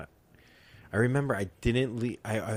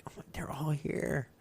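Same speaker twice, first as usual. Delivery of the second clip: stoned whisper; 5 semitones higher, 11 dB quieter, slower than usual. Retold or imitated. Stoned, sees girls in his room.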